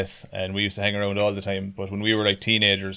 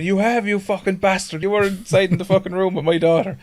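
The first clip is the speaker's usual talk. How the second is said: mock furious father, pitched higher; angry drunk father; 10 semitones higher than usual. Father yelling at the lad in the pub. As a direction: play the raging drunk father, half-hammed. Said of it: "it's like".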